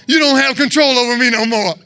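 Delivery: loud, forceful rebuke; bellowed declaration of freedom; defiant scream. Shown as a demonstration. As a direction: shout it down like an enemy. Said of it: "And scream at them".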